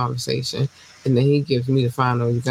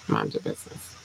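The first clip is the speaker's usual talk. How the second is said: deep low tagline; 10 dB quieter than usual. Pretend. Signature sign-off.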